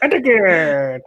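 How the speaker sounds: mock redneck drawl; South Park redneck accent.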